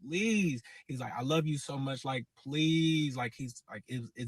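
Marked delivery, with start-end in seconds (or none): 0.1-0.6 mock begging with stretched words; retold begging. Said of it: "he's crying, begging". 1.2-3.1 lightly imitated pleading; retelling a lover's begging; retold begging. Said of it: "he's crying, begging".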